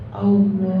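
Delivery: "Allah" said as "Aulo"; mispronunciation. Shown as a demonstration. Teacher demonstrates the wrong way students say it. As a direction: round the vowel into "Aulo". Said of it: "bukan Allah".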